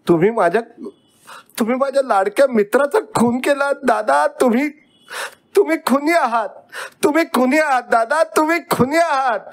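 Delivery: put-on very high, hurried wailing child; crying accusation. A narrator's reading. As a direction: accuse father in a high, hysterical outcry. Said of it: "रडून रडून घर डोक्यावर घेतलं होतं".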